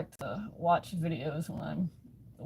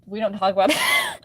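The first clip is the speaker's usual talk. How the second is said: louder, laughing it off; laughing shout; 2 semitones higher, 7 dB louder than usual. Real, not acted. Streamer deflecting an embarrassing slip, laughing and shouting. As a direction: shout it away through a laugh.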